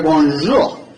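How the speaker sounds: lightly put-on French accent; best French accent. Speaker greets the release bot in an attempted French accent. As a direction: have a modest go at a French accent. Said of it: "in our best French ac-, accent".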